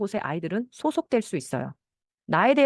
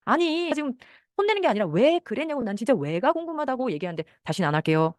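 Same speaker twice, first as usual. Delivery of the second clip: a higher-pitched flustered parent protesting; exasperated parent; 4 semitones higher than usual. Retold or imitated. Flustered parent insisting to child it's not scolding. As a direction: sputter that it isn't a scolding.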